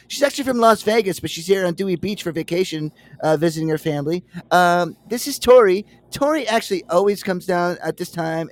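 high, loud chatty introductions, imitating the friend; smooth host. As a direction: show off every girl's backstory like a tour guide.

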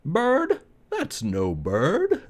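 high, scornful woodpecker, slowing on the second line; high scoffing woodpecker. Acted. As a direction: scoff like a know-it-all bird. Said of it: "said a woodpecker".

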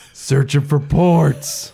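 slow robotic drone. Acted. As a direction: drone it slowly like a machine. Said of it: "be like".

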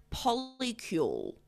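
"polycule" said slowly and carefully; unsure pronunciation. Real, not acted. Podcaster trying out "polycule", slow careful pronunciation. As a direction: sound out "polycule" as an unfamiliar word. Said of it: "not sure if I'm pronouncing".

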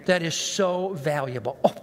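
sugary mock gratitude, slowed; fake politeness. A sermon crowd hears the preacher's fake grateful reply. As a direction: gush thanks you don't mean. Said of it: "on the outside, I go".

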